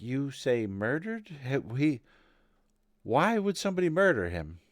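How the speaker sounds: stammering, rising incredulous question; shocked disbelief. Acted. Lady questioning her husband's murder, in mild shocked disbelief. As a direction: pitch climbing as the news sinks in.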